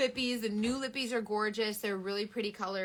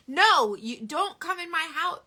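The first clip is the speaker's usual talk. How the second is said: sassy refusal; 7 semitones higher, 8 dB louder, slower than usual. Retold or imitated.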